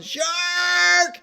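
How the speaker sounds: high, long-held cry of alarm; yelling. Retold or imitated. Wife beating the water as she flees, yelling. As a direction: stretch one word into a loud, high warning. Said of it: "and she's yelling".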